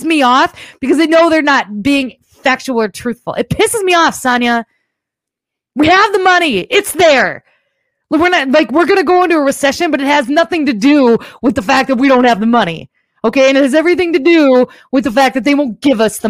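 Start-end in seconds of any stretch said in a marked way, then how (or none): 3.3-12.9 heated but controlled rant; real annoyance. Real, not acted. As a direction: vent real frustration at politicians. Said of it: "listen, I'm annoyed".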